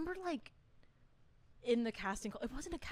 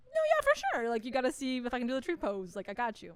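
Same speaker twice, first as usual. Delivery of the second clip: separating my characters; 2 semitones higher, 3 dB louder than usual. Retold or imitated. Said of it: "Did they have an accent, or are you just doing that?".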